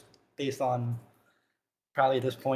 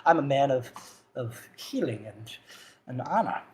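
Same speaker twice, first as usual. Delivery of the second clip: put-on frail old man. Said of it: "He's rather frail".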